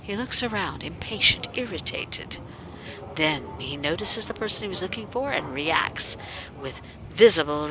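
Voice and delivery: even, wry first-person narration; game story narration. A narrator's reading. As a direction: read the heroine's inner voice dryly. Reads game narration as protagonist.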